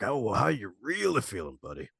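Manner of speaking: "Oh, well, how you really feeling, buddy?" with real interest; concerned friend, stressing "really"; caring check-in. Shown as a demonstration. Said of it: "Intonation is definitely everything".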